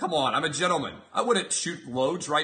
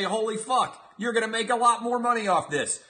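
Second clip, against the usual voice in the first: amazed; 7 semitones higher than usual. Pretend. Investors amazed.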